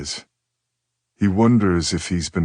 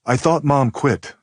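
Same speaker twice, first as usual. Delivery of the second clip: slow, higher, wary daughter; suspicious; 8 semitones higher, slower than usual. Acted. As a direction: ask it suspiciously.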